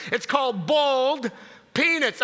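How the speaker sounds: BOILED said like "bold"; mispronounced boiled. Retold or imitated. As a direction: imitate her saying "boiled" without the "oy". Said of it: "She was saying boiled peanuts".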